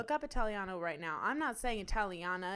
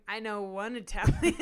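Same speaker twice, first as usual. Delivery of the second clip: laughing mock quote; 9 dB louder than usual. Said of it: "the intro clip is gonna be you going".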